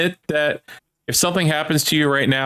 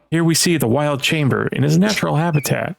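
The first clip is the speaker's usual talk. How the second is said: nature documentary. Pretend. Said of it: "give me your best nature documentary voice".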